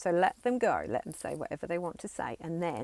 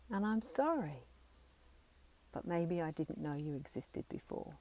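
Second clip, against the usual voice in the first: firm, authoritative and steady; with conviction. Shown as a demonstration. Parent part telling the child to rest, firm and steady. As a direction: stand tall and own every word. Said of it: "Say it with conviction. Say it with authority".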